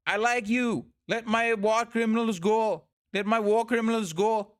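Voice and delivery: put-on Sinhalese accent, mock plea. Politician asking for his war criminals' release, Sinhalese accent. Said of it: "I'm doing my best Sinhalese accent".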